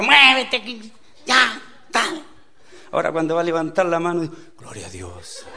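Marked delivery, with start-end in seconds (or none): 0.0-2.2 high, loud mock parent yelling; shouted orders. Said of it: "órdenes a gritos". 4.6-5.5 low, very soft mock-pious murmur; restrained praise. Swallowed anger turned into praise.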